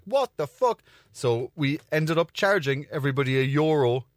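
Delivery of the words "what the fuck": shocked. Retold or imitated. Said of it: "were like".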